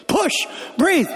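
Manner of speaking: high, loud barked commands; yelling at the mother. Retold or imitated. Roadside helper yells at the woman giving birth, loud high commands. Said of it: "So I'm yelling at the pregnant chick".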